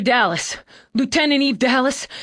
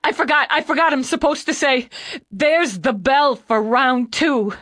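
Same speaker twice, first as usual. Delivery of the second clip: high, louder, sobbing words tumbling out; panicked young man crying hard; hiccuping tears; 9 semitones higher, 4 dB louder than usual. Acted. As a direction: plead through loud hiccuping sobs. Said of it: "between sobs and shakes".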